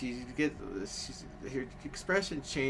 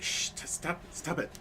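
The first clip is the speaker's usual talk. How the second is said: high, urgent mock shushing; upset mom; 7 semitones higher than usual. Embarrassed mom hushing her daughter, upset. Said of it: "getting kind of upset".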